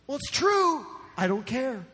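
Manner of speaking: high, dismissive mock retort; defiant shrug. Gossip waving off the charge of slander, defiant. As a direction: play the gossip brushing off the rebuke.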